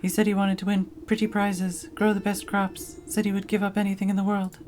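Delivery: a pompous field spirit offering a deal; Harvest Master scarecrow. Acted.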